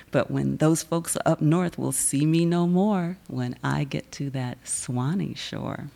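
defiant, rhythmic poem delivery with punched refrains; spoken word performance. Acted. Poet performing her Southern poem to the crowd, defiant and rhythmic. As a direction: perform it proud and sassy, leaning on each I am.

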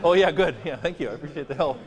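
a student's overdone, loud gratitude; mock grateful student. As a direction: gush thanks like an over-eager student. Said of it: "he's gonna make a little".

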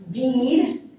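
bead said slowly with a long ee; clear vowel demo. Shown as a demonstration. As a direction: stretch the ee in bead. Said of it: "This is a minimal pair".

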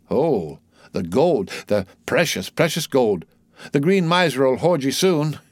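theatrical mad rambling, pitch swinging; prophesy like a touched ship's boy, drawing out key words; crazed boy prophecy. Acted. Voices mad Pip's prophecy.

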